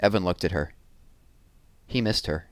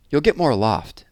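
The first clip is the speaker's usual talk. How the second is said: put-on higher girl's voice, know-it-all advice; a smug little sister giving tips; bossy young girl; 7 semitones higher, 4 dB louder than usual. A narrator's reading. Sister voiced in read story.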